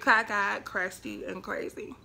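spaced-out title, falling in volume; title announcement. Shown as a demonstration. Vlogger proposing a name for this vlog, deliberate. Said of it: "That should be the name of this vlog".

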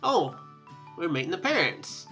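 normal talking voice

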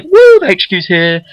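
high, whooping delight; happy cheer. Retold or imitated. Gamer cheering as the headquarters arrives, happy whoop. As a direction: cheer it out as you relive it. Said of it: "I'm like, I'm really happy".

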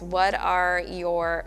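muffled behind fingers; speaking through covered lips; hand over mouth. Real, not acted. Seen 0: Hand covers mouth 0.1–1.3 s, lowered by 1.6 s.

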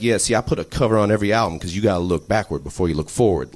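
lazy, unhurried rapper cadence; lightly voiced rapper talking to a writer; impression of a rapper. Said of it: "he would just talk like this".

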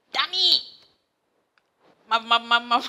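high, loud mock call of her name; excited calling out. Client calling her on arrival.

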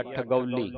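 ਠਗੌਲੀ with a clear "au"; careful pronunciation demo. Shown as a demonstration. Teacher models the word, ਠਗੌਲੀ with clear "au". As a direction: say ਠਗੌਲੀ evenly, each syllable sounded. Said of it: "ਠਗੌਲੀ ਉਚਾਰਨ ਕਰਨਾ".

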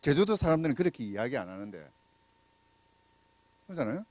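usual speaking voice

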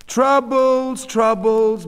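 high, loud kvetch of a sympathetic neighbor; Mrs. Katz, sympathetic busybody, lamenting. A narrator's reading. Neighbor commiserating over another woman's troubles, loud lament.

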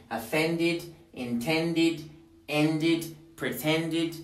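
"offended, intended, ended, pretended", each closing on a full "id". Shown as a demonstration. Teacher drilling verbs in d, "offended, intended, ended, pretended" ending in "id". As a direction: list "offended, intended, ended, pretended" with separate -did syllables. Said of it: "se les pone id".

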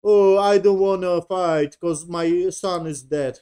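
mock a tearful refusal, drawn out; mock crying. Captain refusing battle over his son, mock crying. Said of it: "he was crying".

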